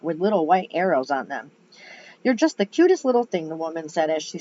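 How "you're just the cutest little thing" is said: lightly southern gushing lady, higher pitch; sweet Southern fussing over a child; southern accent. Acted. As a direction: coo it with a touch of Southern US accent. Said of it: "I gave her a southern accent".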